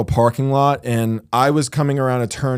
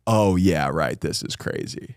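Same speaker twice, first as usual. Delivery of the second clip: hoped-for reply; 8 semitones lower, 7 dB quieter than usual. Retold or imitated. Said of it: "hope that they go".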